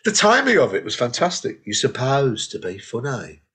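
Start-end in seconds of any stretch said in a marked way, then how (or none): 1.7-3.4 slow Brummie put-down; Brummie accent. Acted. Quoting the woman's heckle, slow Brummie accent. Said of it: "sounds better in a Brummie accent".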